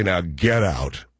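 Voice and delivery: slow, deadpan get-out; drawn-out mock brush-off; curt dismissal. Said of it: "you can say".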